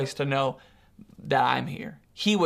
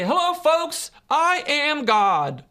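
high, loud, drawn-out showman proclamation; hammed-up booming greeting to a crowd, stretching every word; mock grand announcement; 8 semitones higher, 4 dB louder, much slower than usual. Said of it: "he doesn't say it that way".

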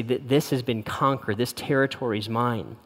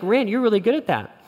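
sincere praise; 8 semitones higher than usual. Retold or imitated. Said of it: "she was being sincere".

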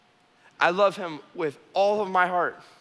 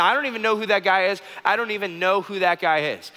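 loud, fast, higher panicked denial; 5 semitones higher, 4 dB louder than usual. Acted. Peter denying Jesus to the servant girl, loud, fast and panicked. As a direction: blurt it out in a rush of panic. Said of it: "he keeps panicking".

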